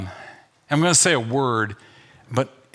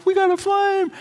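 high mock cheer. Mock survival contestant cheer.

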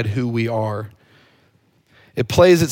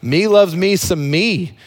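quoting T.O; 5 semitones higher, 3 dB louder, slower than usual. Retold or imitated. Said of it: "That's what T O said".

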